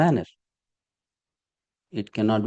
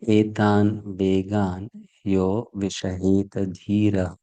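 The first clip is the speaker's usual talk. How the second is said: measured, slow Sanskrit recitation; slow verse recitation; slower than usual. Shown as a demonstration. Teacher reciting the Sanskrit verse to students, slow and measured. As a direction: recite each word slowly and evenly.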